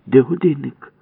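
high, loud demand; demanding shout. Acted. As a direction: bark the question at him. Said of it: "вигукнула Валька". (вимогливий вигук)

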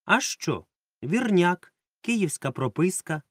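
sharp high knowing exclamation; as if you've cracked the case. A narrator's reading. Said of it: "із знанням справи".

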